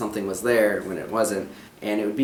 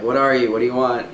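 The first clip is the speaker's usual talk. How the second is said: mild mock challenge; 3 semitones higher, 6 dB louder than usual. Husband imitating his wife who saw someone, mildly raised challenge. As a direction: imitate confronting someone who shouldn't be there. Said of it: "You're like".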